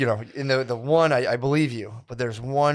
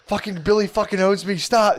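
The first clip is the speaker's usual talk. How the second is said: higher whining plea, half laughing; mock whiny Hoss; 6 semitones higher than usual. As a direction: whine like a beaten friend begging.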